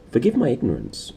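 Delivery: a hint of an old precentor's tremble; a faint old man's voice, barely acted; shaky old precentor. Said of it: "the shaky voice of the old precentor".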